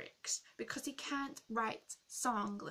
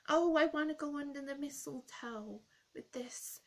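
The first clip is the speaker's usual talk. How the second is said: lightly voiced whiny-kid mockery, higher and louder; mock a kid's wish, pitched up; stupid little kid; 5 semitones higher, 6 dB louder than usual. Singer mocking a stupid kid's Christmas song, lightly mimicking him. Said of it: "here's a stupid little kid going".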